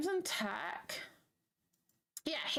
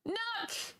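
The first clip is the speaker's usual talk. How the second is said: high cries of laughter; laughing shriek; 9 semitones higher, slower than usual. Real, not acted. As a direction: crack up in disbelief. Laughing screams at a surprise.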